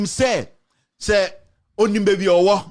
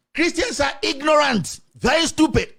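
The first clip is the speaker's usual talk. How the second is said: mocking outrage; 8 semitones higher than usual. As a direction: throw the words back in mock disbelief. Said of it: "When you say Christians are fallible".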